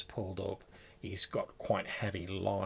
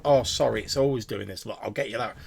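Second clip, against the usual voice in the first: receptionist; 6 dB louder, faster than usual. Acted. Receptionist apologises about computer.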